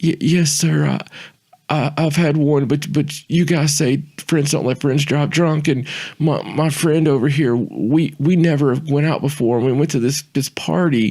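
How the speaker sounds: acted tearful stammering plea. Retelling pleading with the man who pulled him over, retelling stammering, tearful pleading. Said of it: "I completely just break down".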